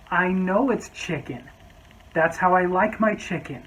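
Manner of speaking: slow, patronizing insistence. Retold or imitated. Customer to waiter, slow patronizing insistence. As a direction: spell it out to the waiter.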